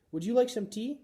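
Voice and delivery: high, polite beginner's English; careful learner. A narrator's reading. Mother practising English phrases, polite and high. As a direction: speak each phrase carefully. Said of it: "Missus Nasiri asked".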